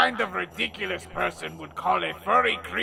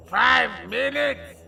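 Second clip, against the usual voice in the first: indignant disbelief; 6 semitones higher, 4 dB louder than usual. Acted. Outraged at short time.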